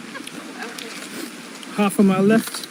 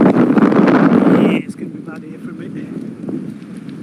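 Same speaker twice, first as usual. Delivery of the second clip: wind in the face; 4 semitones lower, much slower than usual. Real, not acted. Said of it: "Sorry about the wind".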